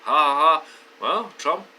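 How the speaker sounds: loud imitated gloating ha-ha; mock laughing. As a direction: mimic attackers laughing it off. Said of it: "they're probably laughing".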